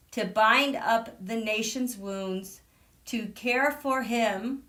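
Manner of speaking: measured, reverent reading of a famous speech; reciting the speech. Acted. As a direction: read it out like a solemn address. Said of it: "With malice," thank you, Tisha".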